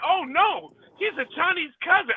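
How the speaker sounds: high, lightly voiced mocking imitation; mocking the hosts. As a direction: tease them in a high put-on voice. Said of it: "They was like".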